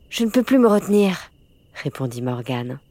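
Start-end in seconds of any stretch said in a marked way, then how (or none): 0.1-1.3 higher, plaintive little plea. A narrator's reading. Morgane needs the toilet at night, answering plaintively. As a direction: complain pleadingly, pitch raised. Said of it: "d'un ton plaintif".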